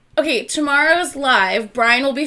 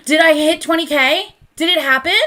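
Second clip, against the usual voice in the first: breathless surprise; 3 semitones higher, 4 dB louder than usual. Real, not acted. Suspects she reached follower milestone.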